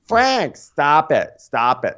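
high, sharp telling-off that steps down; mock scolding. Dolores smacking Frank to stop him, high mock scolding. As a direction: scold him in acted exasperation.

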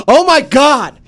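high, loud scream of disbelief; excited scream. Acted. Reader's email screamed at buddy Michael, excited yell. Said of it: "screaming in his face".

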